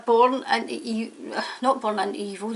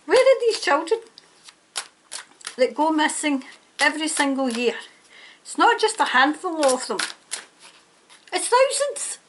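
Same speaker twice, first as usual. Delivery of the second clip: real anger; 3 semitones higher than usual. Real, not acted. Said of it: "I sound angry, because I am angry".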